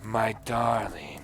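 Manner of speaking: slow, drawn-out Russian mama; old Russian woman, said slowly; Russian-accented endearment, unhurried. Acted. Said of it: "I get to do the Russian accent".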